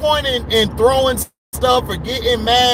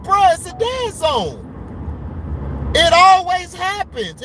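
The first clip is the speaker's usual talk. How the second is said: exasperated retort; 4 semitones higher, slower than usual. Retold or imitated. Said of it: "I'm like".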